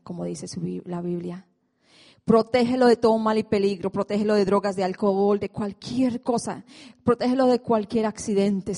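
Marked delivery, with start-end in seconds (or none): 2.2-8.8 pleading, louder prayer to the Lord; fervent loud prayer. Retold or imitated. Mother praying for her son, fervent and louder. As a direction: pray hard for his safety, voice raised.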